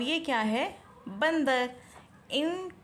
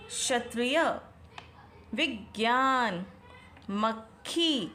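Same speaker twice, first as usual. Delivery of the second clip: options read slowly one by one; much slower than usual. Shown as a demonstration. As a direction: read each word slowly for the class. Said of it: "word क्या लिखा है?".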